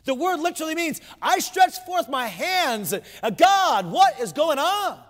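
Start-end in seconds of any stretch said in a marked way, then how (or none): 1.2-5.0 mildly raised, drawn-out cry to God; a touch of desperate questioning, stretched out; anguished plea. Acted. Preacher voicing Asaph's prayer of distress, anguished plea.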